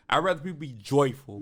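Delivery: lightly put-on gospel preacher voice; gospel singer impression. Telling friends to choose joy, lightly imitating a preacher. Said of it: "in my Kirk Franklin voice".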